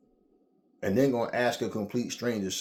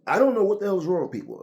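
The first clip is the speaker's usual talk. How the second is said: much higher and louder disbelief; outraged exclaim; 11 semitones higher, 8 dB louder, faster than usual. Real, not acted. Jogger ranting about people, much higher and louder. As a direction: throw up your hands and shout it.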